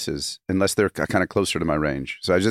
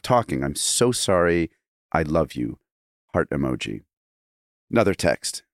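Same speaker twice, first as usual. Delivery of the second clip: dramatic reading. Shown as a demonstration. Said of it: the speaker was going to do a dramatic reading.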